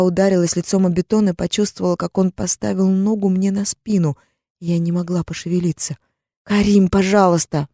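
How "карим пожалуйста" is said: plea; begging. Acted. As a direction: beg him. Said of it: "взмолилась я".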